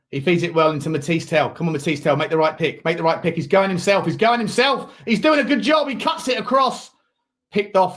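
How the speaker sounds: play-by-play climbing in pitch as the attack builds; live football commentary. Real, not acted.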